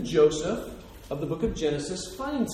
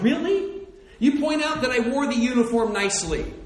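higher, louder indignant complaint; mock outraged disbelief; 7 semitones higher, 6 dB louder than usual. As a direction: play the insulted Hall of Famer. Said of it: "I'm like".

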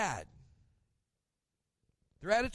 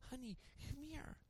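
much softer, higher, coaxing mother-in-law; sweet grandma voice; 4 semitones higher, 8 dB quieter than usual. Retold or imitated. Mother-in-law coaxing a child to explain the picture, soft and high. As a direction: coo gently like a kindergarten teacher. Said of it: "She'll go".

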